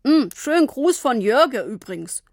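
mumbling through a mouthful of cookies. Acted. Papa chewing cookies, mumbling greetings to his daughter. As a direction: talk round a biscuit, words blurred. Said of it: "Papa aß Kekse und nuschelte".

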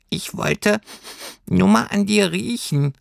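hohes Stimmchen mit Schnüffelpausen; schnüffle dich als Tierchen durch den Satz; schnüffelndes Pelztierchen. A narrator's reading. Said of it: "sagte das Heimweh schnüffelnd". (sehr hoch, schnuppernd, stockend)

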